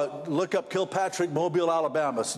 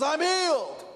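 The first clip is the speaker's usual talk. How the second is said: leaping way up high on I'm healed; wrong version; 12 semitones higher, slower than usual. Retold or imitated. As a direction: squeal it out at the top of the voice, hammed up. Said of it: "Didn't say it that way".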